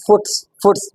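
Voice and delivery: फुट्स said as the wrong plural of foot, with an s added. Shown as a demonstration. Teacher demonstrating to students the wrong plural फुट्स. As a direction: show students the mistaken फुट्स. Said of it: "which is completely wrong".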